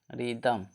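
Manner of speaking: "रिदम" starting on plain r, softly; silent H. Shown as a demonstration. Teacher models the spelled word, "रिदम" with silent H. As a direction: say "रिदम" with no h after r. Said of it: "एच का उच्चारण नहीं हुआ तो रिदम".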